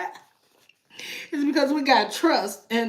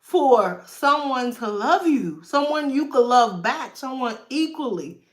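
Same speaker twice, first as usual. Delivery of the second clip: laughing. Retold or imitated. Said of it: "and you like".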